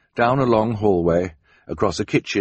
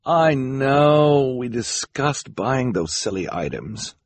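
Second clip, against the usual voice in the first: dismissive socialite; 5 semitones higher, slower than usual. A narrator's reading. Esme waves off her husband's gift ideas, dismissive. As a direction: wave the idea off languidly.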